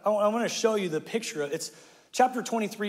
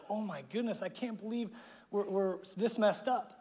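soft, stricken whisper of dismay; hushed shock; 8 dB quieter than usual. Retold or imitated. Young king tearing his clothes, hushed dismay. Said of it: "he's like".

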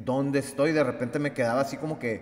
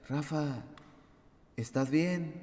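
much softer, concerned question; soft worried friend; 6 dB quieter, slower than usual. Retold or imitated. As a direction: quietly check on a friend. Friend asks if he is okay.

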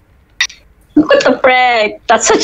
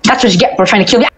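mad scientist; 3 semitones lower, much faster than usual. Acted. Villain taunt while playing.

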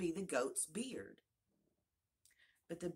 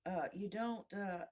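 high, hesitant tiny creature; lightly voiced little insect, halting; 4 semitones higher, slower than usual. A narrator's reading. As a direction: falter in a small raised voice. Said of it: "the little voice began".

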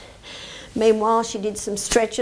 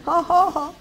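kookaburra laugh; 5 semitones higher than usual. Shown as a demonstration. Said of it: "pretend to be a kookaburra".

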